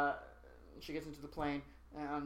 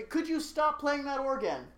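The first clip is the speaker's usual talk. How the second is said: annoyed; 10 semitones higher than usual. Retold or imitated. Annoyed aside to organist.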